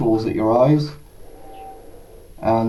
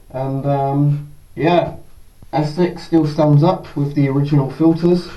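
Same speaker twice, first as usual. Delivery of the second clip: muffled behind a respirator; speaking from inside a gas mask; through a gas mask. Real, not acted. Wearing the mask for testing.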